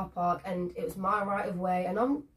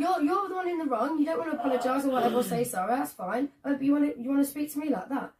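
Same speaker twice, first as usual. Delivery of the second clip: higher, fast indignant rant; retold telling-off; 5 semitones higher than usual. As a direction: tell him off in a fast, indignant rush. Retold confrontation with rude driver.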